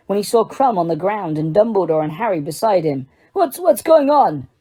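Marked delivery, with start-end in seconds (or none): 3.3-4.5 slow, high, rattled; alarmed. Acted. Karkaroff alarmed seeing Krum on the ground, rattled. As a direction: stumble over it, shaken.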